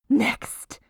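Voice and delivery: breathy hushed "Next"; whisper. Acted. Baker announcing the next step, whispering. Repeated word, whispered then spoken.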